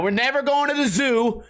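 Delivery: mock protective outburst. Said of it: "half-joking vow".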